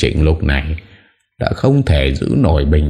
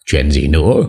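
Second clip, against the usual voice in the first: plain reading voice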